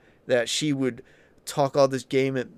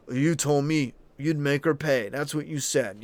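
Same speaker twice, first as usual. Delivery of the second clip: mild mock demand. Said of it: "this demanding, weird".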